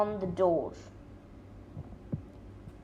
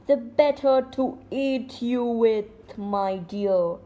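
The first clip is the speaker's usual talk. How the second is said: mild roar. Acted. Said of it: "roared the wolf".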